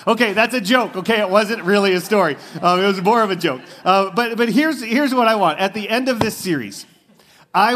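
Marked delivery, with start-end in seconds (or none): 0.1-2.9 laughing. Real, not acted. Laughing after the punchline.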